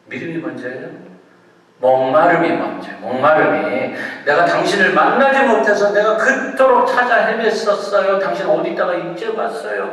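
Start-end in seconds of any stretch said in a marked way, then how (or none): 4.2-9.9 loud, high lover's outpouring; acted impassioned plea. Preacher acting lover to long-sought partner, impassioned plea. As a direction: play a lover pouring out pent-up longing.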